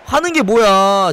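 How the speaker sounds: usual speaking voice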